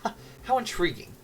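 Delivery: haughty, grandiose noble speech; pompous lord. Acted. Lord Tick-Tock scorning the village girl, haughty. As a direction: speak down from a throne.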